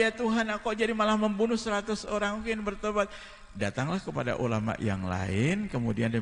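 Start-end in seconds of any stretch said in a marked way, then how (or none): 0.0-3.1 1 repentant sinner. Acted. Penitent killer's voice.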